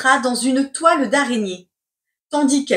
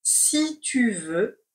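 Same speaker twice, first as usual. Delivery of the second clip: slow and soft; slow dictation; 4 dB quieter, slower than usual. Shown as a demonstration. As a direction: dictate it slowly. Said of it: "C'est parti pour la dictée".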